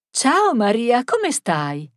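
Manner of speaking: high, loud hello that drops on the question; lifted, hailing hello; old lady's greeting. Acted. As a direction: greet eagerly in an elderly woman's little voice. Old Teresa hailing Marta.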